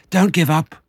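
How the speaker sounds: high, loud, strained plea; panting encouragement. A narrator's reading. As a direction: urge them on while winded. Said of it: "panted Mister Fox".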